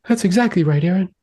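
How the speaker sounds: a client who feels understood; agreeing client. Retold or imitated. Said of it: "Cheyenne's like".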